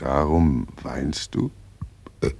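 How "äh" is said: burping. Acted. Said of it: "Warum rülpsen Sie denn fortwährend so ekelhaft".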